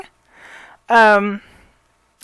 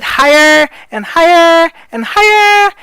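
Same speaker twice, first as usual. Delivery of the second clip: each higher pitched up a step; sliding higher; 5 semitones higher, slower than usual. Shown as a demonstration. Coach demonstrating a pitch slide to students, rising voice. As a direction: climb the pitch on every higher. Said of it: "by doing the slide mechanism".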